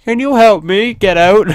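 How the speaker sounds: high, loud British damsel voice; put-on high British accent; British woman. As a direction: plead as a trapped British lady. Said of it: "I don't know why she's British".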